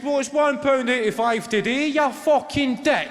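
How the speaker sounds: high, loud, slowing on "you fucking dick"; mock shouted comeback. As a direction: bark it right back at him. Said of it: "held his nerve and he said".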